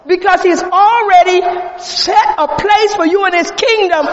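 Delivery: driving, emphatic sermon delivery; forceful preaching. Acted. Preacher pressing the congregation to choose God, forceful preaching.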